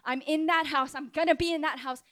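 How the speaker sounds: rising from steady reassurance to high, fervent promise; impassioned vow of protection; Jesus promising. Acted. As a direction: build in pitch and conviction. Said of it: "he's saying right now".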